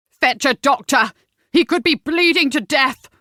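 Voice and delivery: loud, pressing command; urgent. Acted. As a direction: push him to run for help. Urgent order after the shooting.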